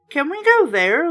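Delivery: put-on eager, pushy kid asking; lightly voiced eager boy begging to go; eager demand. A narrator's reading. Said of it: "Luke demanded eagerly".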